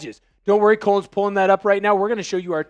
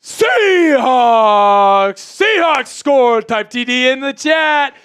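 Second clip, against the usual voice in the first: real, much higher and louder, bursting with joy; excited touchdown yell; 5 semitones higher, 6 dB louder, much slower than usual. Real, not acted. Streamer celebrating a Seahawks touchdown to his chat, shouting excitedly. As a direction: yell the touchdown like a thrilled fan. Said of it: "Sorry if I blew out your speakers. I'm just excited".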